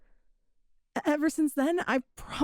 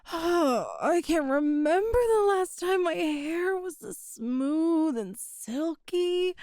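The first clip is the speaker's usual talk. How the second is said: blissful; 2 semitones higher, slower than usual. Acted. Blissful after a bath.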